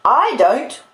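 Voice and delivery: high, indignant sister's retort; scolding retort. Acted. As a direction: throw it back crossly. Sister snaps back at Pip.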